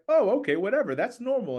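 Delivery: dismissive shrug. Retold or imitated. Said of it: "and they're like".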